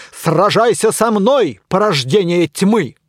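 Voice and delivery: loud, slow, grand knightly challenge; pompous challenge. Acted. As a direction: declaim it like a hero of legend. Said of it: "патетично заявил".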